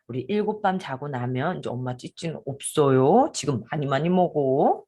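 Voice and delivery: put-on tender to toddler. Shown as a demonstration. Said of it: "이렇게 해가지고 얘기를 해놓으세요".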